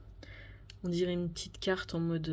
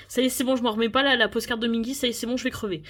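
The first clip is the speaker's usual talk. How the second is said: giddy excitement; 3 semitones higher, 4 dB louder, faster than usual. Real, not acted. Overwhelmed by the postcard.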